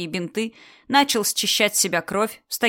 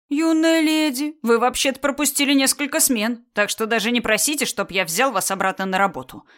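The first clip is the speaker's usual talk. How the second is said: put-on stern old doctor; 4 semitones higher, 3 dB louder than usual. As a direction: lecture her like a strict old doctor. Old doctor addresses the girl. (строгий старый доктор)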